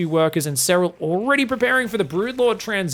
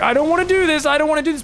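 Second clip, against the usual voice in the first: mock dread; 9 semitones higher, 5 dB louder, faster than usual. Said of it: "like putting your hand into a meat grinder".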